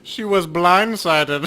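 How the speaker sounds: drawn-out punchline; milk the joke; slow pun. Real, not acted. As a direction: land the pun slowly. Pun delivered slowly.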